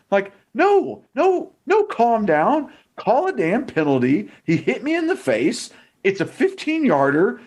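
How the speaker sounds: high-pitched, heated outburst; really fired up, pitch jumping high; fired-up rant. Real, not acted. Furious rant at the refs.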